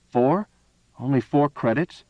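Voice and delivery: can't believe the price; astounded. A narrator's reading.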